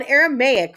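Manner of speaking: "Aramaic" ending clearly in "may-ik"; grudgingly correct pronunciation. Real, not acted. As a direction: give in and say "Aramaic" as "air-a-may-ik". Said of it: "Fine, I said it, okay?".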